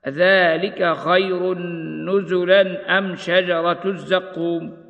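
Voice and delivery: slow, measured tartil chant; slow Quranic recitation. Acted. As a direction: recite it slowly with tajweed. Recites verse in tajweed style.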